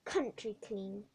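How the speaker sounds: slow, sneering; scornful. Acted. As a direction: drip contempt on the word. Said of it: "she said scornfully".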